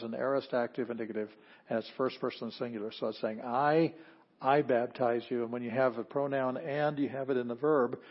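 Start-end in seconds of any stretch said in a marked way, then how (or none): 3.4-5.4 I said alone, then repeated with weight; stress on I. Shown as a demonstration. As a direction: lean on the pronoun I. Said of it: "that is emphasis".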